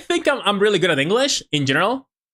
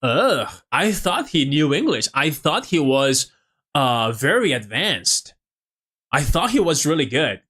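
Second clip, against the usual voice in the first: mocking commenter; slower than usual. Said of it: "you'll see a lot of people saying".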